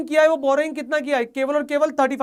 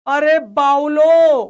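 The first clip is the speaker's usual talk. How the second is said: slow, louder mock exasperated call; playful scolding; 6 dB louder, much slower than usual. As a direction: tease the class as fools. Teacher scolds students playfully.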